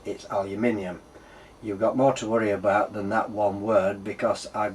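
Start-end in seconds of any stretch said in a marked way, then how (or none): 0.1-1.0 aluminium said al-yoo-MIN-ee-um, stress on MIN; aluminium, five syllables, British style; British pronunciation. Shown as a demonstration. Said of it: "Uh, to me".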